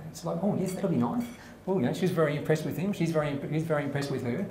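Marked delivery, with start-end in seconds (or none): 0.4-1.2 s sounds turned to th; lisped joke voice; lisping woman. Acted. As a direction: play her with a lisp, "nice" as "nithe". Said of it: "she's got this lisp".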